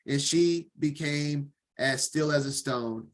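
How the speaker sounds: steady, measured Bible reading; formal reading-aloud voice; scripture reading. Acted. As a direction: read the passage evenly to the class.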